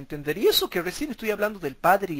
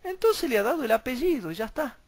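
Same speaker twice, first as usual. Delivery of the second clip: mocking imitation; 4 semitones higher than usual. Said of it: "dicen los antitrinitarios".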